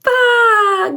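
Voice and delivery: playful lamb baa. Shown as a demonstration. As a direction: bleat like a lamb. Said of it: "Let's hear you baa one more time".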